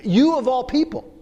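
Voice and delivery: You pushed up and hit hard; emphatic you. Shown as a demonstration. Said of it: "on that pronoun you is emphatic".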